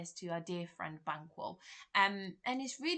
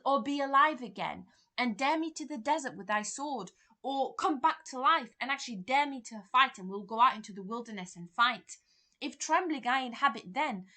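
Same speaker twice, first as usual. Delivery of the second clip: loud, higher challenge to fight; loud raised challenge; heated dare; 5 semitones higher, 7 dB louder than usual. Acted. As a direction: taunt the ghost to fight. Macbeth dares Banquo to fight.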